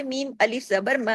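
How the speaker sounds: thin, light "म" after मीम अलिफ जबर; thin light vowel. Shown as a demonstration. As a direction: keep the long "म" thin, not rounded. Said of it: "बारीक हो जाएगी".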